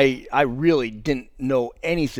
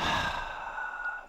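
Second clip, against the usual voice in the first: long aroma sigh; 11 dB quieter than usual. Acted. Acting out taking in coffee aroma.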